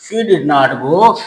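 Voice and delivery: very slow, each word spaced; slow dictation. Shown as a demonstration. Teacher building the answer for students, very slowly. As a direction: lay it down word by word. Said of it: "building the sentence".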